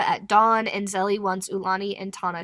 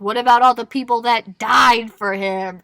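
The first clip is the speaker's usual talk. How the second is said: mild imitated outburst, a bit louder; retold yelling; 6 dB louder than usual. Recapper voicing Zelly at the griots, mild retold yell. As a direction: recount an angry challenge, raised but contained. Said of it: "starts yelling at the griots".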